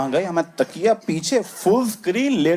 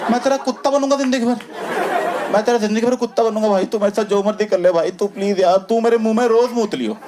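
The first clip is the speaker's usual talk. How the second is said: panicked begging; 7 semitones higher than usual. Retold or imitated. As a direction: beg desperately to stop the dad. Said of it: "वो वहां पे excited है".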